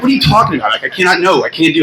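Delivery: high, laughing what are you talking about; half-laughing protest; giggling exasperation at his friend; laughing refusal. Retold or imitated. Retelling refusing his call.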